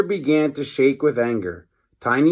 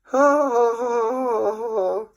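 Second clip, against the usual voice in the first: much higher, cackling mock laugh; mocking laughter; 11 semitones higher than usual. Captain Underpants laughs at the villain's name. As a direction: laugh right in his face. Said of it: "was really mad".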